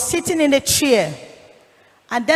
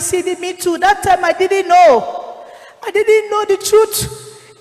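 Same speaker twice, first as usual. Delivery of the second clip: higher-pitched, drawn-out retold plea; pleading; 5 semitones higher than usual. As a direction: plead slowly for understanding. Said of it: "I was pleading to him".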